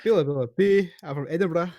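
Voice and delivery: badly faked Edinburgh catchphrase accent; botched mock-Scottish patter. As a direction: sign off in unconvincing Scottish. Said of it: "but that's not Scottish".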